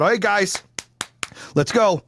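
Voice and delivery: mock-eager protest organizer; mock activist rallying. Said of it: "the libtards are gonna pull out".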